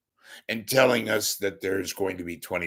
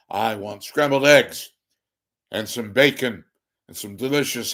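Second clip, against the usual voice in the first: Burt Lancaster impression; 2 semitones higher, 6 dB louder than usual. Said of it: "the man who would talk like this, say".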